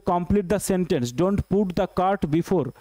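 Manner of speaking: each word spaced out for the class; clear, drawn-out classroom reading; slow dictation. Shown as a demonstration. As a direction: read it out slowly, like dictating to students. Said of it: "teacher dictates the sentence slowly".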